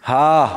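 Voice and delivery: a short breathy yawn haa; yawning haa sound. Shown as a demonstration. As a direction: demonstrate the yawn noise for the class. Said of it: "یا آہ جیسی آواز نکالتے ہیں". (جمائی کی ہا کی نقل)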